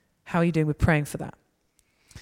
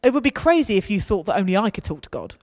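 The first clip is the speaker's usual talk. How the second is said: higher, louder coaxing; coaxing a clubber to pray; eager encouragement; 5 semitones higher, 6 dB louder than usual. Retold or imitated. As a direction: lift them up to pray first. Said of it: "And I'm like".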